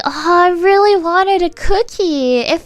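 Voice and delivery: imitating a parent's exaggerated pleading; playfully wistful parent; mock sad. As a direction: act out a hammed-up pout over a cookie. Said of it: "I'm so sad".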